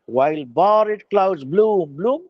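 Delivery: lingering, savoring each word; slow poetic recital. Acted. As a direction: read it like a poem to the class. Recites line again slowly. (ধীরে কবিতার মতো আবৃত্তি)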